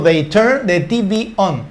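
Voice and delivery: slow, clear example sentence; slow teaching read. Shown as a demonstration. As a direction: spell the sentence out slowly for the class. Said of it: "Y cuando digo". (lectura lenta y clara para la clase)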